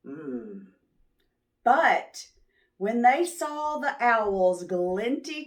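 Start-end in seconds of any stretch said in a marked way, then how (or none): 0.1-0.7 low grumble. A narrator's reading.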